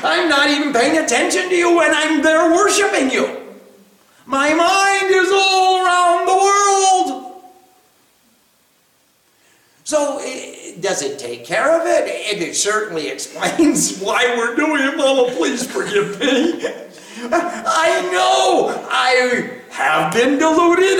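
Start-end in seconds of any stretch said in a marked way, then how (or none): 0.0-7.4 mock confession, voice pitched up; confessing to Mother. 15.0-16.7 pleading to Mama through a laugh; playful pleading. Acted. Acts out plea to Mother. 17.3-21.0 slow, high, drawn-out admission; exaggerated confession. Acted confession to Mother.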